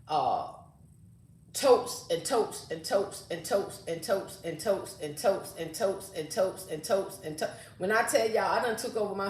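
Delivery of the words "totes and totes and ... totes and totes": slow drawn-out list, exasperated. Real, not acted. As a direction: drag out every totes wearily. Listing endless storage totes.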